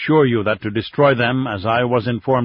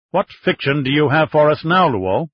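sharp, higher accusing question; agitated challenge; 4 semitones higher, 4 dB louder than usual. Acted. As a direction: needle him with the word fiction. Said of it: "becoming agitated".

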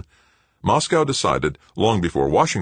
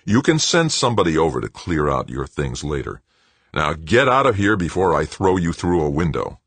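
menacing threat; 3 dB louder than usual. Acted. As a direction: threaten him, controlled. Paul threatens Greg.

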